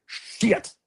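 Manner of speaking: hushed, breathy swear under the breath; a whispered retold curse. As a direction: echo it in a defeated whisper. Speaker echoes friend's reaction.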